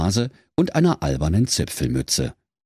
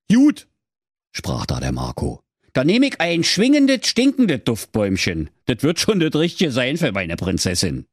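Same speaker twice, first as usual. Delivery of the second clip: high, quick, eager hero voice; eager young hero; 6 semitones higher than usual. Acted. Marco asks the dwarf for an air freshener, high and eager. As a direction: Marco chirps his question fast and high.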